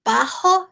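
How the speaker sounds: "pajo" said as "paho"; Spanish j in "pajo", aspirated; J like initial R. Shown as a demonstration. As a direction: give the j in "pajo" an h sound, as in Brazilian "rato". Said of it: "O R que inicia palavras em português".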